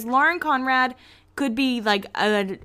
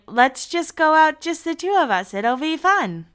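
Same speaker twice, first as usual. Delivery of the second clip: upbeat; 8 semitones higher, 4 dB louder than usual. Retold or imitated. Audrina coaxing Lauren out.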